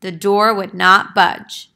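read-aloud counting, each number punched; lively picture-book narration; storybook counting. A narrator's reading. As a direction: count the steps out for the kids. Counting steps read to children.

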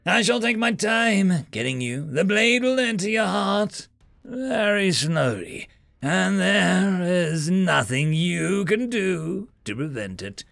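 high, slow alien shout; shrill-pitched alien victor shouting; gloating alien. Acted. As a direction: crow over the pinned human. Alien threatens slow kill.

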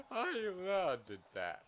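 strained, slow, high-pitched protest; high mock indignation. Real, not acted. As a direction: squeak it out in disbelief. After a loss, high strained.

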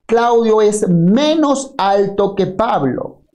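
Claudio es menos alto, con "menos" lento y marcado; lectura lenta del dato. Shown as a demonstration. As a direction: lee despacio subrayando "menos". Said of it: "Entonces dice acá". (leer el dato despacio, recalcando "menos")

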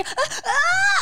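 high exaggerated stage gasps; over-the-top acting. Shown as a demonstration. Voice actor demonstrating a colleague's overacting, high exaggerated gasps. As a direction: show how overdone her acting is. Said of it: "harus lebay".

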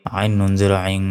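final عين held with a nasal hum; ghunnah on عين. Shown as a demonstration. Teacher showing ghunnah, last عين held through the nose. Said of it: "গুণনা হবে".

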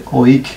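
ওইক said as a firm, clear oik; suffix ওইক said clearly. Shown as a demonstration. Teacher names the acid suffix, ওইক said clearly. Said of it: "কি উচ্চারণ করতে হবে?".

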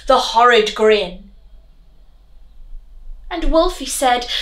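lively rhyming read-aloud; reading a poem to children. A narrator's reading. Teacher reading Revolting Rhymes aloud to her class, lively storyteller voice. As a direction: tell it like a bedtime rhyme.

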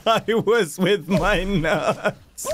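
slow words through laughter; laughing. Real, not acted. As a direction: laugh while saying it. Laughing after fall.

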